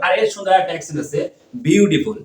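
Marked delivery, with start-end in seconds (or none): 1.7-2.2 American-accented "বিউটিফুল"; demonstrating an American pronunciation. Shown as a demonstration. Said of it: "ওটা হচ্ছে American accent".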